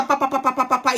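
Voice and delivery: mock nonstop run of syllables; imitated endless chatter. Host mocking how Mathieu talks on uninterrupted, imitated endless chatter. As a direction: rattle it off like someone talking on and on. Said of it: "c'est pas le typique de l'Ivoirien".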